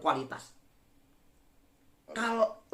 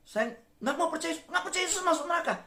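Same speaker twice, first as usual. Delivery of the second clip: higher, laughing through the neighbour's words; can't keep a straight face quoting him; laughing refusal; 10 semitones higher, faster than usual. Retold or imitated. Preacher quoting the stubborn neighbour, laughing.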